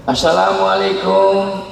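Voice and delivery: slow drawn-out salam at the door; slow beggar's greeting. Acted. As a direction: call out slowly to the house. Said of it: "Datang pengemis".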